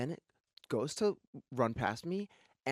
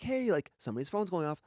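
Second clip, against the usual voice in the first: higher-pitched retold call-out; 7 semitones higher than usual. Alerting the gym to a phone, calling out. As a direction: call out to get attention.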